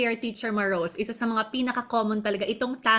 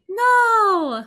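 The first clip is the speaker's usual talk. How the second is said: put-on high shrieking child's yell, much louder; mock tantrum yell; 11 semitones higher, 7 dB louder, much slower than usual. Host imitating a child escalating in a tantrum, shrieking high and loud. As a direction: yell it like a kid mid-tantrum. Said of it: "pataas ng pataas yung energy".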